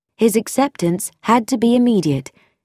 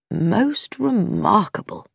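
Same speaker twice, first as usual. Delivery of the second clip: suspicious; 3 semitones higher, slower than usual. A narrator's reading. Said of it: "peered at it suspiciously".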